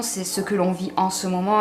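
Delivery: words between sips of coffee; while sipping coffee. Real, not acted. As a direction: talk while drinking coffee. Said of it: "je bois mon café en même temps".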